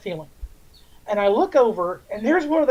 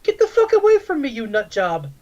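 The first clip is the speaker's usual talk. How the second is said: retold shout; 5 semitones higher, 4 dB louder than usual. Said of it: "And I went".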